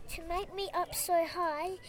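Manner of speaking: whispered spell. A narrator's reading. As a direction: chant the spell under your breath. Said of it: "whispered Taylor".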